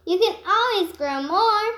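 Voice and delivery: tossed-off tease; laughing. Acted. Bird laughs off the plucked hairs, cheeky. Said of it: "he laughed".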